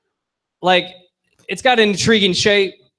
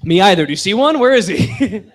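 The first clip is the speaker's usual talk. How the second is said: loud, higher indignant joke; mock outrage; 3 semitones higher, 5 dB louder than usual. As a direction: play it outraged for laughs.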